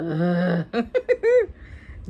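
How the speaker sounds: long drawn-out bored noise; bored groan. A narrator's reading. Stink trailing parents through shops, bored groan. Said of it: "Stink made bored sounds".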